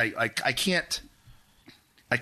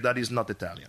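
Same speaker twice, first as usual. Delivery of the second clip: put-on Italian accent. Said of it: "That's a good Italian accent".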